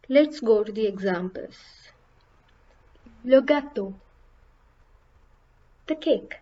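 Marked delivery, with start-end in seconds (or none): 3.2-3.9 "gâteau" with a prominent, louder â; stressed circumflex vowel. Shown as a demonstration. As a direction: lean firmly on the â in "gâteau". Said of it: "makes the vowel sound more stressed".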